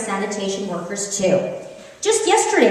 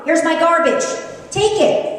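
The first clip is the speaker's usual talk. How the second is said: put-on demanding child; 7 semitones higher than usual. Child in the backseat ordering mom, high and insistent. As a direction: play the bossy kid in the backseat. Kid voiced in story.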